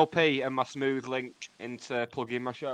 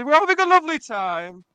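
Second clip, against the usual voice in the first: high, lilting radio presenter voice; sing-song voice going up at the end; Terry Wogan impression; 11 semitones higher, 7 dB louder than usual. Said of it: "I go full Terry Wogan".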